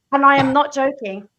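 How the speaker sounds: normal talking voice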